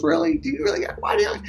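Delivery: high-pitched, exasperated mock scolding; pissed-off wife. Wife confronting Tom over his blunder, imitated as pissed off. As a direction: imitate an angry wife telling off her husband. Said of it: "she's pissed".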